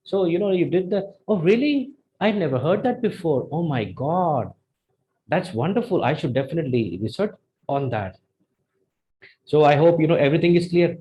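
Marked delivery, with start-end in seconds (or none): 0.0-8.2 demonstrated amazement with swooping pitch; mock astonished, wondering reaction; amazed. Shown as a demonstration. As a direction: react as if impressed by news. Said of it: "tones up when you're amazing".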